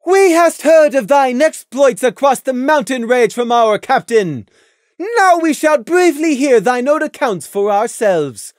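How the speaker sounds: high, loud royal interrogation; imperious moon princess; stern princess Luna. A narrator's reading. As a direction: press them like a stern royal judge.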